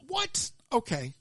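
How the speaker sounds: high yelled what then dropped okay; accidental hype-man shout; rapper impression. Vlogger slips into a hype-man impression, yelled. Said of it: "That was my rapper impression".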